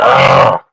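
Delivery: short throaty growl imitation. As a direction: grunt it out like an angry man. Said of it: "men just be like".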